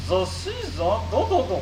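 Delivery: mangle the consonants like a glitchy robot. Acted. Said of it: "souffre d'une pathologie vocale".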